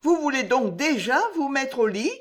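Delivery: high anxious maid's question; nervous informant working up courage; trembling voice. Acted. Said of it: "d'une voix tremblante".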